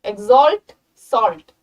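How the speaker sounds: exalt, pause, salt, both ending in "olt"; rhyming demo. Shown as a demonstration. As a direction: punch exalt and salt slowly to show the rhyme. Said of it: "अंदर से rhyme कर रहा है".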